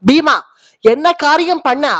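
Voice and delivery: angry call of Bhima; indignant elder brother's rebuke; outraged rebuke. Acted. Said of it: "ஆவேசமா பேசுறார்".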